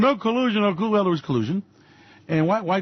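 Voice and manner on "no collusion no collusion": mock Trump. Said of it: "So Donald Trump".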